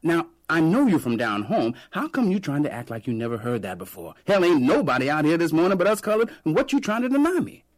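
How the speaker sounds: loud, high indignant street vendor; ranting vendor. A narrator's reading. Vendor rants at the narrator.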